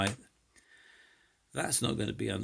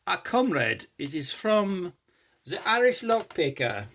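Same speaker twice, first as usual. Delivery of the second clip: high, loud put-on Irish accent, like the Irish Lockpicker; mock Irish accent; 7 semitones higher, 7 dB louder than usual. Vlogger reading the Irish Lockpicker's note in a mock Irish accent. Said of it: "I don't know what accent that was".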